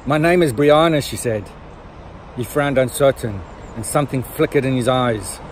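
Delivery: dramatic book reading with measured pauses; story narration. Acted. Reading fans a little extract from the scene, expressive story narration. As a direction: read it out like a novel extract.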